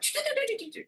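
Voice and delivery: high, rapid stuttering "tu-du-du-du"; imitated light noise. Showing how the healing lights work, imitated light noise. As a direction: rattle off a high string of zappy syllables.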